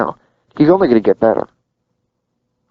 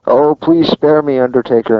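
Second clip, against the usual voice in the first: mock pleading; 4 semitones higher than usual. Host mimics a manager begging The Undertaker for mercy, mock pleading. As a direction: plead in a lightly hammed-up way. Mock plea quoted from wrestling storyline.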